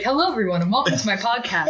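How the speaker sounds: lightly voiced podcast host; silky podcast intro voice, a hint of it; smooth buttery voice. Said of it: "Like a really smooth, buttery voice".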